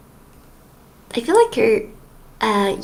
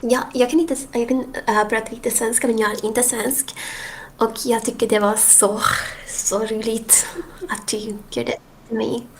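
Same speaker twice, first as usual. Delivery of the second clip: mock Swedish rant. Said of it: "I'm gonna rant to you".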